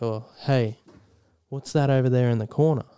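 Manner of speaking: put-on easy, understated American accent. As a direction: lightly imitate an American speaker. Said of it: "does the American".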